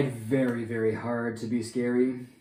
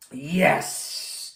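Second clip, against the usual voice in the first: cheer; 5 semitones higher, 6 dB louder than usual. Acted. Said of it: "cheered Leonardo".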